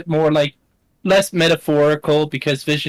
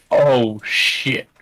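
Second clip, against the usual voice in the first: freaked out whisper; 2 semitones lower than usual. Acted. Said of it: "Kazir looks freaked out".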